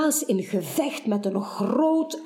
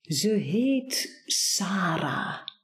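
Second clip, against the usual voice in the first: slow, softer, tender; velvety voice; 3 semitones lower, 3 dB quieter, much slower than usual. Acted. Baas tenderly tells Buur the name, slow and soft. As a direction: say the name softly and lovingly, slowly. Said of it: "Met fluwelen stem antwoordt Baas".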